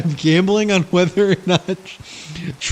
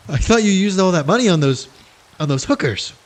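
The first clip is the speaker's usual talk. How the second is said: Stewie voice; 4 semitones higher than usual. Acted. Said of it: "Stewie, okay?".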